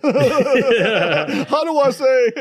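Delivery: chuckling through the words; laughing. Real, not acted. Host joking to guest about getting canceled, laughing. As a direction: laugh as you ask it, half joking.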